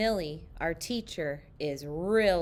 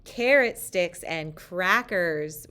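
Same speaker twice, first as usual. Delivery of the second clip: mild yell; 5 dB louder than usual. Retold or imitated. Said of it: "we yell".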